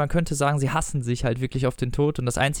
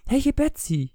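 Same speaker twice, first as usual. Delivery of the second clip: high-pitched acted wail; 14 semitones higher, slower than usual. A narrator's reading. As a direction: call out plaintively, pitched high. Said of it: "jammerte sie". (jammernd, mit hoher Stimme)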